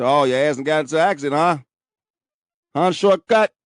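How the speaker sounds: fast, mocking uncle ribbing him; teasing uncle. Uncle teasing his hospitalized nephew, fast mocking ribbing. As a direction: rattle it off like a joking uncle. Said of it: "he's so silly".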